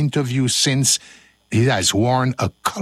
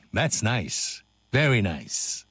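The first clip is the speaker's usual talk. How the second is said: low, soft savouring tone; hushed appreciative aside; soft approval; 5 semitones lower, 7 dB quieter, slower than usual. Pretend. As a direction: murmur it with quiet approval. Savouring aside between takes.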